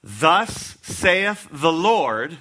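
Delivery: very slow, word by word; slow weighty pulpit declaration; solemn proclamation. Acted. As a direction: proclaim it like reading from the tablets. Preacher proclaims scripture.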